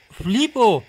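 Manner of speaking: loud astonished exclamation. Real, not acted. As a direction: disbelief burst out. Reacting to sudden defeat.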